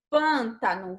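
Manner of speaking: "Pântano" with a closed, nasal first â; "Pântano", stressed first syllable kept closed; closed vowel. Shown as a demonstration. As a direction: say "Pântano" with the mouth only partly open on the first vowel. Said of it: "você não abre muita boca pra pronunciar o pan".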